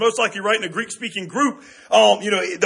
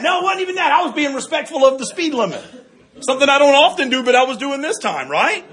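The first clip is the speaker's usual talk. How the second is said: laughing; 6 semitones higher than usual. Real, not acted. Laughing at own story.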